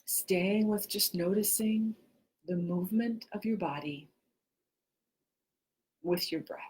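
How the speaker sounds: unhurried meditation guide with long pauses; guided meditation. Real, not acted. Teacher guiding listeners to notice inhale and exhale, guided meditation. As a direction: lead them gently through the breath, phrase by phrase.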